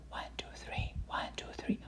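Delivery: soft whispered counting. Shown as a demonstration. Lecturer showing the patient whispering the count. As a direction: breathe the count with no voice. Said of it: "Ask the patient to whisper".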